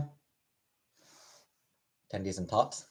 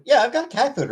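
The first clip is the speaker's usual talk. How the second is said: pet talk voice; 13 semitones higher, 4 dB louder than usual. Real, not acted. Talking to cat, high pet voice.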